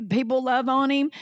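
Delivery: ordinary talk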